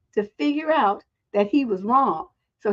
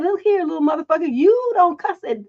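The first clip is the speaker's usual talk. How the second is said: higher, emphatic telling-off; retold scolding; 5 semitones higher than usual. Mother scolding a boy for cussing, stern telling-off. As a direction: lay down the law to a kid.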